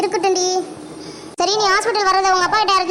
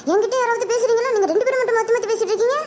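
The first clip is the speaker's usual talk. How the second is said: higher-pitched, put-out protest; indignant complaint; 4 semitones higher than usual. Acted. Ignored friend protests to the chatting pair, indignant. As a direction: complain at being left out.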